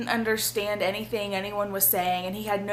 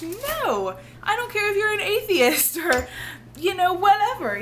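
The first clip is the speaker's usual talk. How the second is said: sudden Southern twang; high, loud country twang; country accent; 11 semitones higher, 4 dB louder than usual. Real, not acted. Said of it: "I don't know where that country accent came from".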